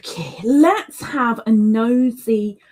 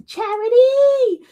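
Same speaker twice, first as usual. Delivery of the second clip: excited call; 13 semitones higher, 4 dB louder, slower than usual. Real, not acted. Greeting chatter loudly.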